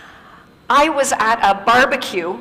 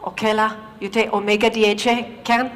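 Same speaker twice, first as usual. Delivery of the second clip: Malaysian English. Retold or imitated. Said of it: "She looked, she said".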